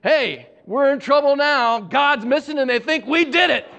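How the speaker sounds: a hint of a scared little boy, laughing through it; panicked little boy. Little brother fleeing the office, warning his brothers in mock panic.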